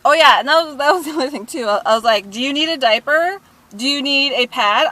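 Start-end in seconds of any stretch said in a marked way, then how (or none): 2.3-4.9 raised, higher mock offer; re-enacted sarcastic confrontation; retold taunt. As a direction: needle the culprit with pointed questions.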